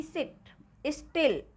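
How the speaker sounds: सिट, स्टिल slowly with a short "i"; slow, separate सिट, स्टिल with the short Hindi इ vowel. Shown as a demonstration. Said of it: "आई को छोटी की मात्रा से pronounce किया".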